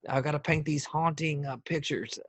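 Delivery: halting put-on Bush voice; George W. Bush. Ex-president on his haunting pictures, Bush impression. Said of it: "as Bush".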